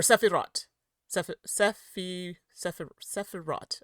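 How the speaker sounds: Sephirot sounded out with the T; final T pronounced. Shown as a demonstration. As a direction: try Sephirot syllable by syllable, T at the end. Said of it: "to say the T on it".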